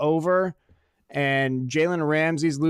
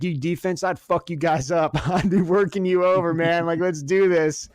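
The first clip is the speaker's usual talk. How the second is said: fired-up pep talk; 4 semitones higher than usual. Retold or imitated. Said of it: "classic motivational speeches".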